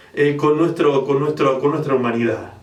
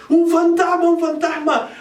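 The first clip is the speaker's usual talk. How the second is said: high frightened cry with a sudden hit of volume; cry of fear; 13 semitones higher than usual. Acted. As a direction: shout it as if terrified at a ghost. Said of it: "daban voces de miedo". (grito de miedo, agudo y fuerte)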